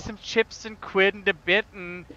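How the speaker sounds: hammed-up mock British accent; bad British accent. Teasing a British player with slang, bad British accent. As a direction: fake British, stumbling over the words. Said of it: "If you're gonna do a British accent".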